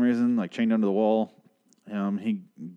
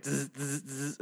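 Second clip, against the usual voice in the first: imitated electric buzz; 3 semitones higher, 11 dB quieter, slower than usual. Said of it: "it's like".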